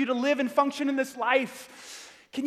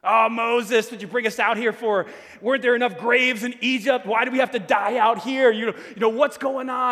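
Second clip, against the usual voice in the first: whiny complaint; 6 dB louder than usual. Retold or imitated. Israelites complaining to Moses.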